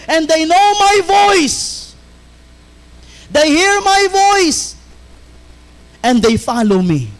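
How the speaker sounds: fervent sermon voice addressing the Jews; preaching as Jesus. Acted. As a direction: call out to the doubters as the Lord.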